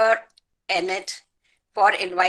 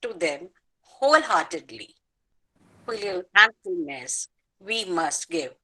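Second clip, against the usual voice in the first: measured, earnest poem reading; a poet honouring her parents in verse; poem recitation. Acted. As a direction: recite with grateful devotion.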